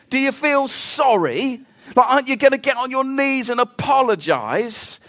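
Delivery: lightly voiced scolding rebuke; imagined reproachful Jesus. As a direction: needle Peter with scornful questions.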